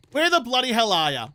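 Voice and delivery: broad Aussie quoting of the tourism ad; Lara Bingle ad line. Retold or imitated. Streamer quoting a famous Aussie ad to chat, mild broad Aussie. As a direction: deliver it like the old Australian tourism slogan. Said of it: "In the immortal words of Lara Bingle".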